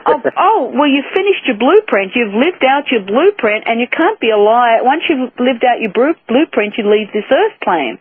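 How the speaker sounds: lightly voiced calm, matter-of-fact Mary; a hint of a serene, unbothered tone. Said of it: "very matter-of-factly".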